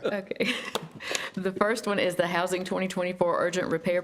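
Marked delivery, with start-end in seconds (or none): 0.0-2.0 shivering with cold, teeth chattering. Real, not acted. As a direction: speak through chattering teeth. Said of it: "Sorry if my teeth are chattering".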